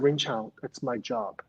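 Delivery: a quiet, calm retelling of a firm reply; mild imitation of an unshakable calm; very calmly. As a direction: state it softly and simply, no fuss. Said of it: "Very calmly".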